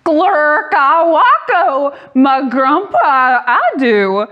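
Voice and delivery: slow, goofy nonsense voice; silly voice. Pretend. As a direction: ham up the silly words. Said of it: "make silly sounds like".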